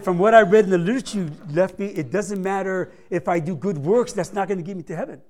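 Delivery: put-on quick, loud, eager retelling of the old man; excited. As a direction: gush it out fast like an eager convert.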